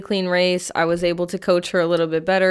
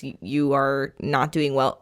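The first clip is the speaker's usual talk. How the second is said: blunt verdict; 5 semitones lower, 3 dB quieter than usual. Retold or imitated. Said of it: "looks at her and says".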